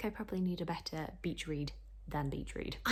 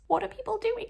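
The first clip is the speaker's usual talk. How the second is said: high, loud disbelief; exasperated outburst; 8 dB louder than usual. Real, not acted. Vlogger to viewers, exasperated at a hundred unread emails. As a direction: throw up your hands at the inbox.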